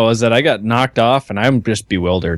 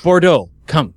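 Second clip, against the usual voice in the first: posh horse call; 9 semitones higher than usual. Pretend. Calls horse in posh manner.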